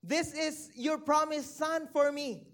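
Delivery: questioning God. Retold or imitated. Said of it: "if we would tend to question God".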